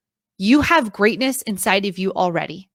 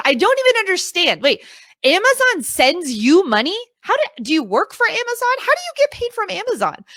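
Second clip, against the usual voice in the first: high, puzzled parent voice; baffled parents; 8 semitones higher than usual. Retold or imitated. Parents puzzled by how their kid earns money, high and baffled. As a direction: mimic a confused parent. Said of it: "they're like".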